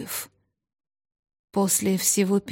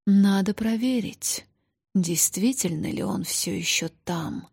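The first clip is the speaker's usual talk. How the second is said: thoughtful. Acted. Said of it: "задумчиво проговорила".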